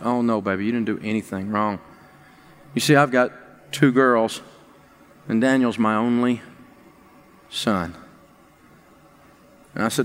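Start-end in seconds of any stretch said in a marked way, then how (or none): 0.0-7.9 tearful reassurance. Retold or imitated. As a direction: comfort the boy through tears. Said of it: "I just started crying".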